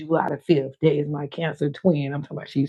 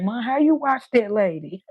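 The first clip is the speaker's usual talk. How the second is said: lightly mimicked daughter, pitched higher; a higher, questioning voice for the daughter; imitating her daughter; 6 semitones higher than usual. Daughter questioning what mom watches, lightly mimicked. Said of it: "daughter, you always saying that".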